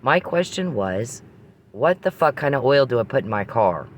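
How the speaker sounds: boiling over with irritation; pissed off. Real, not acted. Woman venting about a pointless oil question, pissed off. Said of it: "'cause I'm getting pissed".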